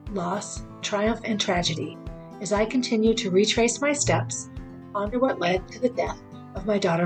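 measured, scripted welcome with deliberate pauses; podcast intro read. Acted. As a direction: read the show introduction phrase by phrase.

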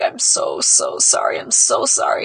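breathless whisper of sorry; barely voiced, broken apology. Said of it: "He's like".

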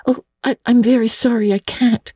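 put-on high girl's voice, gently firm; firm little girl. A narrator's reading. Anne refuses Miss Barry's invitation, politely firm. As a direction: decline politely but without wavering. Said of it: "said Anne firmly".

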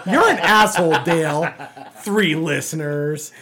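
a hint of fake indignation; mock outrage. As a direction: pile on the host in jest.

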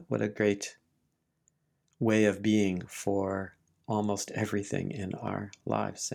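unhurried meditation guidance with long pauses; gentle teacher leaving space between phrases; guided meditation. Real, not acted. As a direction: ease listeners into relaxing, phrase by phrase.

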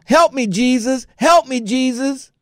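high, pleading mock holler. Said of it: "she was hollering".

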